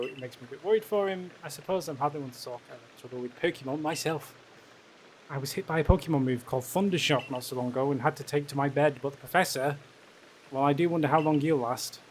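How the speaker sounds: softly voiced, subdued worrier; worried villager. Clumsy villager frets about the professor, mildly worried.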